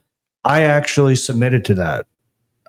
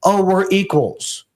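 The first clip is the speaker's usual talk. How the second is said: higher, slow, put-on modest voice; fake humility; 9 semitones higher, slower than usual. Husband mocking how he downplayed himself to old friends, in slow fake humility. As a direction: pretend to fit in with old friends. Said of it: "I tried to be like".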